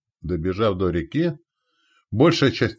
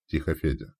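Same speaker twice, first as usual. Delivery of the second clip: softer hushing; hushed into ear; 3 semitones lower, 5 dB quieter than usual. Acted. Scout calming his waking friend, hushed. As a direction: quietly shush your partner. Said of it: "выдохнул он в ухо".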